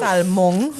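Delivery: "Salmon" as sal-MONG; Papiamento pronunciation. Shown as a demonstration. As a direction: give "Salmon" its Papiamento ending. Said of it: "Let me put in papiamento".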